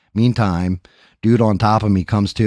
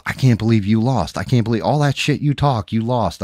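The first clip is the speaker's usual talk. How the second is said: mock ribbing; 4 semitones higher than usual. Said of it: "were ripping my balls".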